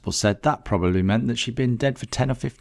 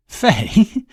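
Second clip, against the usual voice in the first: high, louder incredulous echo of the name; as if the idea is absurd; 13 semitones higher, 7 dB louder than usual. Acted. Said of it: "Letta laughed bitterly".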